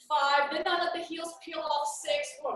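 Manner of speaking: wobbling off balance mid-count; losing balance. Real, not acted. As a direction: voice tipping as balance goes. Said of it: "I'm losing my balance".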